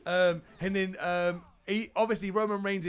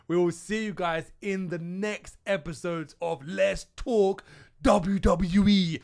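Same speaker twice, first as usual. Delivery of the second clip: slow, loud, drawn-out show title; show sign-off; 4 dB louder than usual. Real, not acted. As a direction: call out the show name like a host.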